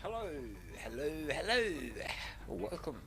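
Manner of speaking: echoing mic greeting; hello with heavy echo effect; toy echo microphone. Real, not acted. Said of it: "you got an echo".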